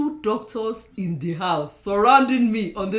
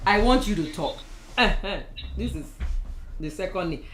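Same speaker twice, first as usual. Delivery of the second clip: kneeling down. Real, not acted. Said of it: "Let me kneel down".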